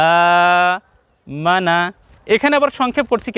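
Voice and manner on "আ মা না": আ drawn out, মা না short; long a. Shown as a demonstration. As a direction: give আ the longer pull. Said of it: "একটু টান বেশি দিয়ে বলছি". (আ-তে টান বেশি দিয়ে)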